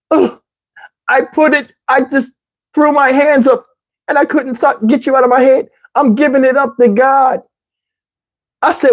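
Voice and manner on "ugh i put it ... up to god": high-pitched overwrought woman; imitating tearful woman. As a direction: plead helplessly in a mock feminine voice. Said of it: "I'm gonna do her voice exactly how she said".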